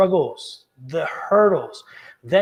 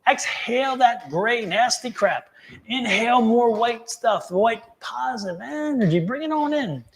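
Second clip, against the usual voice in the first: raised, coaxing breath-work guide; guided breathing; 2 semitones higher than usual. Acted. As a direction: talk them through each breath. Leads a breathing exercise.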